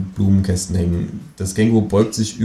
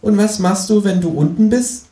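kangaroo voice; 13 semitones higher, 3 dB louder than usual. Acted. The kangaroo speaks.

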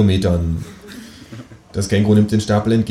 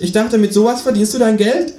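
high, falsely innocent kangaroo voice; mock-innocent talking animal; sanctimonious; 14 semitones higher, 3 dB louder than usual. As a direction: ask with feigned innocence, high-pitched. Kangaroo teases the narrator.

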